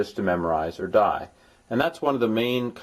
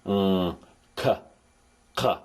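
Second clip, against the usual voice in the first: throaty sounds demo; slower than usual. Shown as a demonstration. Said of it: "kind of throaty sounds".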